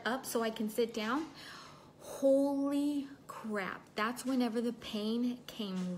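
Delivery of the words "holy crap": shocked. Retold or imitated. Recalling sudden pain rushing in.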